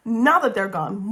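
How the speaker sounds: giggling through the words; laughing. Real, not acted. Reviewer giggling once spoiler-averse viewers have left, laughing. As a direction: laugh it out, conspiratorial.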